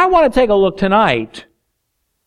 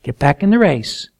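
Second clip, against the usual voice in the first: gentle encouragement; 5 semitones lower than usual. Acted. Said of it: "very gently, very kindly says".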